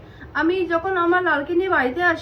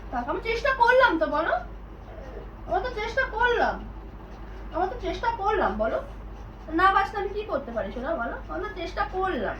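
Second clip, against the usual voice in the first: 1 consoling; 4 semitones higher, 4 dB quieter, faster than usual. Real, not acted. Consoling son, pitch raised.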